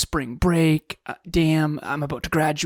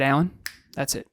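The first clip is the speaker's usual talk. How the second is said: stern self-talk. Retold or imitated. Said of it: "this is my self-talk".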